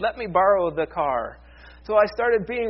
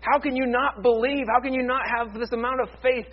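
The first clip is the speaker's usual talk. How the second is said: mock reproach; 5 semitones higher than usual. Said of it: "get right in his face and say".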